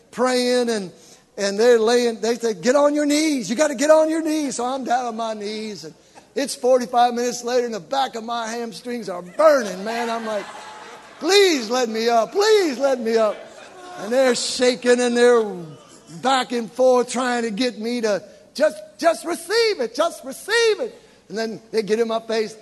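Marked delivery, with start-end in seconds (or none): 2.6-4.6 imitated church mothers, higher and louder; insistent urging. Old sisters of the church urging the convert, imitated insistent command. 11.2-13.4 loud, hammed-up begging; mock pleading. Convert kneeling forty-five minutes with burning hamstrings, mock desperate plea. 18.5-21.0 high-pitched, repeated coaxing; imitated fervent urging. Church mothers shaking the convert back and forth, imitated high urging.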